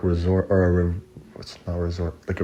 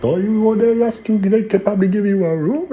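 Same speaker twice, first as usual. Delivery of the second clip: very high, loud falsetto imitation of nice people; mock nice; 13 semitones higher, 7 dB louder than usual. Retelling how nice everyone at the camp was, mock nice. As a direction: squeal it sweetly in hammed-up falsetto. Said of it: "Everyone's all nice".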